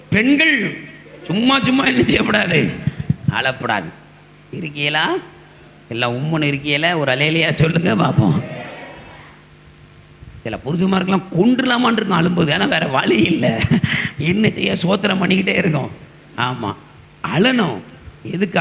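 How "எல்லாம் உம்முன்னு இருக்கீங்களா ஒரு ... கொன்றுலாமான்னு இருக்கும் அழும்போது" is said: ordinary talk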